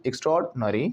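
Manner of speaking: एक्स्ट्राऑर्डिनरी in one run, ik-STROARD-nuh-ree; said together. Shown as a demonstration. Teacher asking class to join it, one merged word. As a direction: say एक्स्ट्राऑर्डिनरी without stopping after extra. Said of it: "अभी एक साथ बोलोगे".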